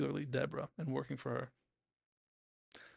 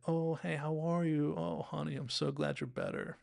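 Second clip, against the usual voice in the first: higher, gushing hello easing down; warm greeting; 4 semitones higher than usual. Retold or imitated. Comedian to a recovering fan, warm and lilting.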